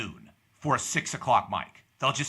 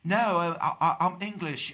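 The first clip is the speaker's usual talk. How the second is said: higher, stammering fake English accent; 5 semitones higher than usual. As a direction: protest in a badly faked English accent. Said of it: "wanted to try out her English accent".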